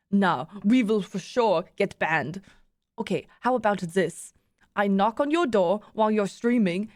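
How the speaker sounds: put-on loose, imperfect German accent; attempted German accent. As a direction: pitch the plan in an amateur German accent. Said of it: "I can't do a German accent".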